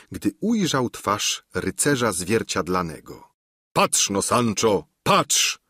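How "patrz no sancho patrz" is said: calling out. Acted. Don Quixote calls Sancho over to look: excited call. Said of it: "wołał".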